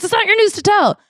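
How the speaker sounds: high indignant put-on voice; hammed-up offended wife; mock indignant wife. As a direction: put him in his place, high and pointed. Wife scolds, acted quarrel.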